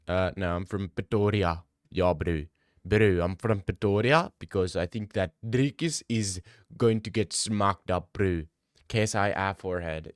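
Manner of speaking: lightly put-on South African accent; a casual South African accent over banter. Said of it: "That's a pretty good accent".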